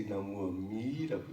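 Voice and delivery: "Namu Amida Butsu", leaning on MI; wrong-way demo, emphasis on "mi" of "Amida"; stress on mi. Shown as a demonstration. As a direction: show the mistake with a long "mi" in "Amida". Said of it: "You don't have to say".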